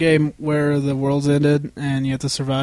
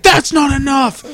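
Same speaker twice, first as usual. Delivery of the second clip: villain shout; 10 semitones higher, 5 dB louder than usual. Retold or imitated. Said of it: "Zod being like".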